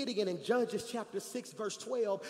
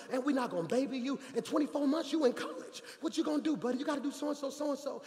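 retold scolding, pitched higher; fed-up parent lecture; 4 semitones higher, faster than usual. Dad refusing to baby his teenage son, mock scolding. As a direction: nag like a dad who's on one. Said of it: "I was on one too".

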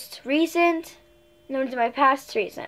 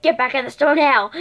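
mildly louder scolding order; mock stern mom; 2 semitones higher, 7 dB louder than usual. Mom scolding daughter for leaving the store unpaid, a touch louder. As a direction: lightly play the angry mom.

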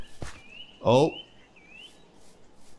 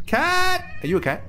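high-pitched delighted cry; excited cat call. Real, not acted. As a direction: squeal it out at the sight of a cat.

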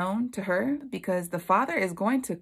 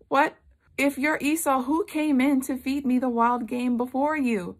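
high, louder startled questioning; shocked disbelief; 6 semitones higher, 4 dB louder than usual. Acted. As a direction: demand an answer in raised-pitch bewilderment. Isaac shocked by second son.

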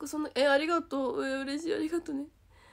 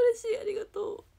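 ordinary delivery

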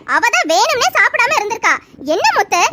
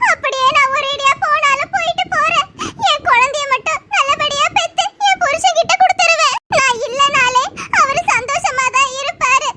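sobbing resignation; 3 semitones higher than usual. Acted. Wife tells the doctor her husband would be happier without her, crying.

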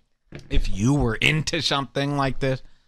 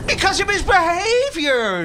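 very high, put-on comic delivery; exaggerated high squawk; hammed-up high voice; 14 semitones higher, 3 dB louder than usual. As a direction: push the voice way up for a joke. Same put-on voice after punchline.

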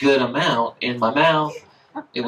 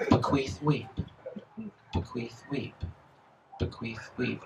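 repeated words growing softer each time; poem refrain fading; 11 dB quieter, slower than usual. Acted. Poet reading to the audience, fading refrain. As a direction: let the refrain fade away almost to nothing.

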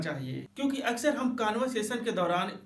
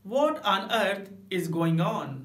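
very slow "What on earth is going on?", "What" stressed; drawn out "What on earth is going on?"; emphatic; much slower than usual. Shown as a demonstration. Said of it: "ऐसे भी कह सकते हैं". ("What on earth is going on?" ज़ोर देकर)

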